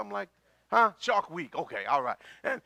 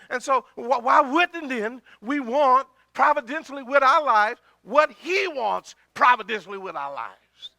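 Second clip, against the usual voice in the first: raised, emphatic preacher's question; forceful preaching; 6 semitones higher, 8 dB louder than usual. Real, not acted. Preacher challenges congregation about what God wants, forceful preaching. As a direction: drive the question home loudly.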